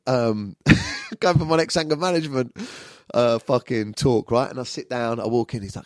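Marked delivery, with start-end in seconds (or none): none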